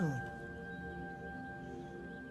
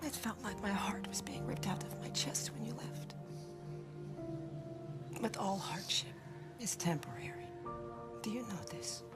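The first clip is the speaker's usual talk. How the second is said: tender mother; 3 dB quieter than usual. Acted. Dead mother comforts her son.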